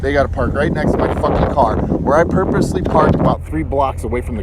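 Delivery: loud swearing, real exasperation; angry shouting in the parking lot; furious rant. Real, not acted. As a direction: vent real fury at the careless driver. Ranting over car parked beside his.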